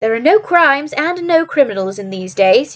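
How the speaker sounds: drawn-out complaint, a touch peevish; querulous. Acted. Holmes grumbles to Watson about his profession, mildly querulous. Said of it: "he said querulously".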